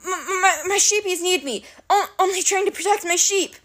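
high, tearful blubbering; sobbing. Acted. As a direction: cry over the sheep. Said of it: "He began to sob".

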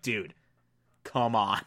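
understated appeal, low and soft; quiet reproach. Retold or imitated. Eleanor summed up to Chidi, quiet low reproach. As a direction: say it low, almost under your breath.

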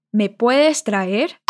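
Me puedes traer stretched out very slowly; very slow request. Shown as a demonstration. Teacher repeats Pedro's request very slowly for learners. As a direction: ask it slowly, word by word. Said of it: "Como a gente pede".

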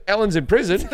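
mock shock. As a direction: feign surprise at breaking news. Pretends to react to predicted news.

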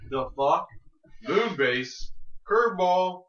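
halting read-out, a pause after each phrase; deliberate inflection. Shown as a demonstration. Co-host reads out their written notes, deliberately inflected. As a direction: lift CURVEBALL after a pause, like a punchline. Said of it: "in that inflection of your voice".

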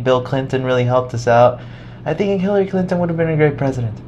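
a chatty monk, lightly put on; Thai monk voice. The monk tells the student about Clinton, high and chatty.

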